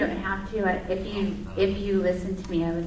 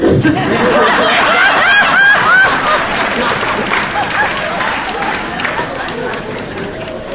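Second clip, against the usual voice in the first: a burst of real laughter, loud and high; delighted shrieking laugh; 15 dB louder than usual. Real, not acted. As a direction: crack up at the offer to trade roles. Laughing at the role swap.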